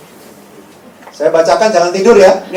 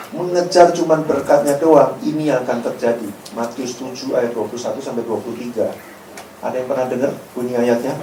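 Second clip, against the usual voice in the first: ordinary delivery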